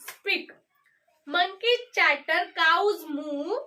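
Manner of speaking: rhythmic sing-song reading, pausing after each line; reading a poem aloud. Shown as a demonstration. Teacher reading the poem aloud to the class. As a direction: read it like a children's rhyme, one pair of animals at a time.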